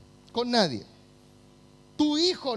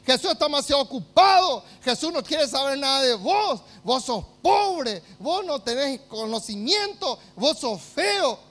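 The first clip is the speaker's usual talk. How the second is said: a hint of a taunting devil, louder on the first lines; devil's lies; 3 semitones higher, 5 dB louder than usual. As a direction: sneer the devil's lies at the listener. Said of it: "esas mentiras diabólicas".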